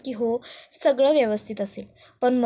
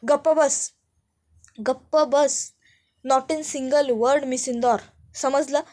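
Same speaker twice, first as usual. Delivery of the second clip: angry shout; 2 semitones higher, 3 dB louder, slower than usual. Acted. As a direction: shut her up with a shout. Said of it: "जोरात ओरडतो".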